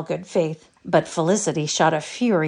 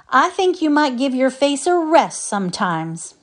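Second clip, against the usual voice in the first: cross; 8 semitones higher, 4 dB louder than usual. A narrator's reading. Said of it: "said the old man crossly".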